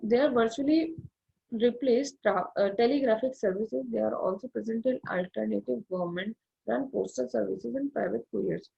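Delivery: slow, deliberate textbook reading, word by word; reading aloud. Acted. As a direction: read it out slowly like dictation. Reads English textbook passage. (धीमे-धीमे किताब से पढ़ते हुए)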